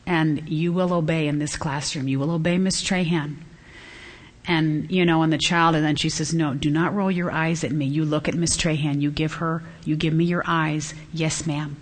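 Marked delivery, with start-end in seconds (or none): 0.0-3.3 soft, measured teacher voice, imitated; gentle, understated authority; loving but firm. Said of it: "she very lovingly says". 6.3-11.8 low, restrained teacher voice, imitated; mild, calm insistence; loving but firm. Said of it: "she very lovingly says".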